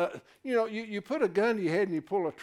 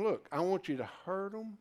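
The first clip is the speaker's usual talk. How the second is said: softer, slow retold order; softer, slowed retelling of a command; retold command, hushed; 2 semitones higher, 5 dB quieter, slower than usual. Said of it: "he tells them".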